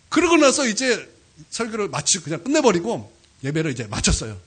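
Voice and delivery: normal talking voice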